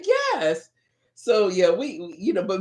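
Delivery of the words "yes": high-pitched mock-exasperated yes; acted-out insistent reply; emphatic confirmation. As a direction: answer firmly, voice pitched way up. Acts out her firm answer.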